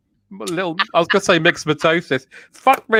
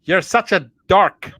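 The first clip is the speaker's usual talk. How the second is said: drawn-out Northern Irish imitation; Northern Irish accent; slower than usual. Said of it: "get into my Northern Irish".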